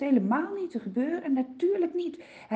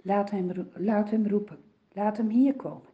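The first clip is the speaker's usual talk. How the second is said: calm command; 2 semitones lower than usual. Acted. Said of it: "zegt hij".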